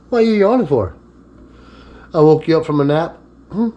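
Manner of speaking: high teasing pet voice; talking to a dog. Real, not acted. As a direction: tease the sleepy dog.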